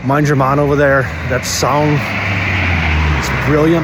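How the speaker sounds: put-on Dublin accent; casual attempt at a Dublin accent. Shown as a demonstration. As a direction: show off your Dublin accent. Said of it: "my fucking Dublin accent".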